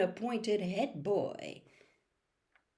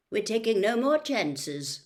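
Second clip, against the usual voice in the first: severe matron; 3 semitones higher, 4 dB louder than usual. Acted. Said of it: "told them severely".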